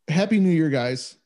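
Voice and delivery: hiccuping between words; with hiccups. Real, not acted. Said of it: "Sorry, I got the fucking hiccups".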